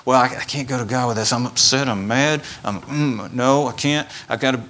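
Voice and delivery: fast, tumbling excuses; flustered excuses. Retold or imitated. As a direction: rush through the excuses as if cornered. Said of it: "And what do we do?".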